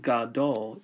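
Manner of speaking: "gadol" with a clear "ga" before "dol"; full first vowel. Shown as a demonstration. Teacher points to the sound that gets reduced, full vowel. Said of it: "the emphasis on this sound".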